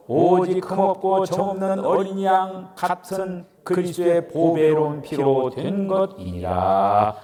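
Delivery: slow, solemn Bible reading; scripture reading. Acted. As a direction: read the verse reverently and slowly. Reads scripture aloud.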